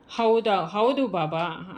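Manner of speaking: a touch of choked tears on "ಹೌದಾ, ಹೌದು ಬಾಬಾ", slowed. Retold or imitated. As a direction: say "ಹೌದು ಬಾಬಾ" slowly, as if holding back tears. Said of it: "ದನಿ ಗದ್ಗದಿತವಾಗಿತ್ತು".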